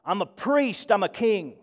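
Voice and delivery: puffed-up, pleased with themselves; mock a self-important boast; a touch of smug pride in a priestly title; proud excitement. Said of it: "people get excited about who they are".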